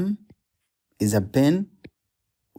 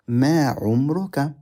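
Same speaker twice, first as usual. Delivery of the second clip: "ما عمرك" said quickly with a falling end; quick repeat; faster than usual. Shown as a demonstration. Teacher repeating "ما عمرك" quickly for students. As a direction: rattle off "ما عمرك" fast. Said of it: "Question mark".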